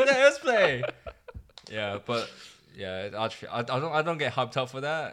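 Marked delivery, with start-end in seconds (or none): 0.0-0.8 mock excited voice. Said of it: "they're like".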